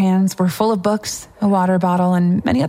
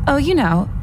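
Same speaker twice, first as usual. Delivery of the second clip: put-on snobbish girl, taunting; 2 semitones higher than usual. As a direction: needle the newcomer with mild mock innocence.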